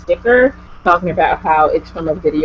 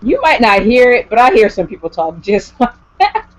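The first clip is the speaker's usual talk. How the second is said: pitched-up mock objection, ending in a laugh; high, loud protest; 5 semitones higher, 4 dB louder than usual. Answering southerners who deny the accent, in a high loud protest. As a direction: call out the lie, high and loud. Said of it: "And I'm like".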